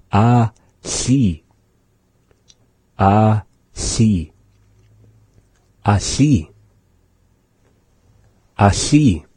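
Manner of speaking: Ah, si repeated slowly, tongue held at the L while air blows out the side; drilled pronunciation. Shown as a demonstration. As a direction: drill Ah, si several times, holding the lateral hiss. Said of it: "doing like an L".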